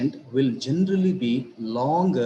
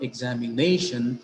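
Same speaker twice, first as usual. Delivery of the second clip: examination with the fourth syllable NAY accented; examination with its weight on the NA; stress on NAY. Shown as a demonstration. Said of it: "the syllable nay".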